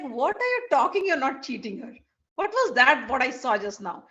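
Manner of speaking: incredulous, punchy questioning; indignant challenge. Acted. Saraswati challenging Krishna's denial of cheating, indignant. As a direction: call out the denial, acted indignation.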